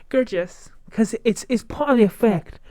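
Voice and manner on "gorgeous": gorgeous with an American accent; affected American pronunciation. Shown as a demonstration. Showing viewers how gorgeous sounds, American accent. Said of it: "I think the accent does it".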